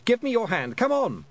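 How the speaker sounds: put-on boy voice. A narrator's reading. Roland voiced in story.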